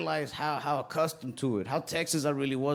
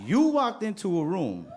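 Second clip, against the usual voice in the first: higher and higher mock rant; 5 semitones higher than usual. Kid barber ranting at a customer, mock outrage. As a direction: go off on him, laughing. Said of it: "I'm like".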